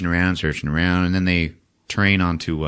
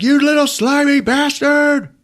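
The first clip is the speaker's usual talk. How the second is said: high, loud, slow snarl of rage; scratched thug yelling at a kid; furious yell; 5 dB louder than usual. Retold or imitated. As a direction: curse the kid who scratched you. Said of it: "Leon's like".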